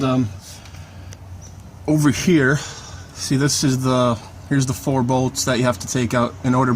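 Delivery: talking while lying on his back; lying under a car. Real, not acted. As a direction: speak from flat on your back under a car. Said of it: "I'm under the car right now".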